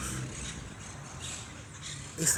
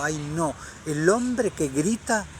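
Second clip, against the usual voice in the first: prissy scandalised woman, lightly voiced; a hint of a pious lady tut-tutting, pitch up; mocking churchgoer woman; 3 semitones higher, slower than usual. Preacher mimics a Jehovah's Witness woman, mildly mocking scandalised tone. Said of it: "una testigo de Jehová, me dijo".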